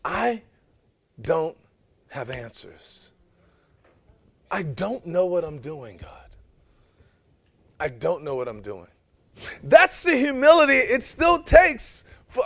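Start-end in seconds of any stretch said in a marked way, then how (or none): 0.1-8.9 soft, halting confession with long pauses; helpless Moses. Acted. Moses tells God he has no answers, faltering and quiet. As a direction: let the words fade into a quiet admission.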